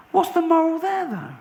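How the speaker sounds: high indignant comic rant; mock outrage. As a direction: protest in exasperated disbelief. Outraged rant about rhyme's moral.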